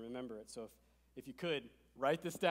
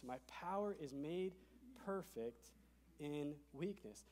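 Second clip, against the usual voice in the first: softer, reflective echo of the verse; soft repeat; 6 dB quieter, slower than usual. Shown as a demonstration. Pastor echoing the verse to the room, softly. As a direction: let it settle quietly. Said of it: "Now, here it is".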